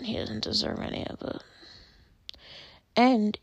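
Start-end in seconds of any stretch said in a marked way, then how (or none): 0.0-1.4 choked whisper. Real, not acted. Upset about actor's illness.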